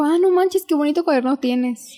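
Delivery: a hint of a gushing teacher; imitating the teacher. Girl imitating her teacher complimenting her notebook, high and bright. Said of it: "Es que dijo".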